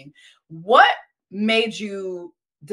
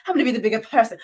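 playful mock London accent; American trying on a British London accent; 3 semitones higher, 3 dB louder, much faster than usual. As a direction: imitate a Londoner, amused by the accent. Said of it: "I love y'all accent".

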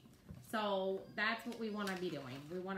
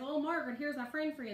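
sugary introduction; 6 semitones higher, 4 dB louder, faster than usual. Retold or imitated. Sweet teasing introduction.

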